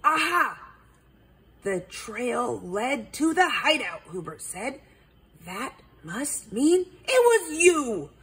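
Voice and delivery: triumphant accusation; owl detective voice. Acted. Hubert detective voice.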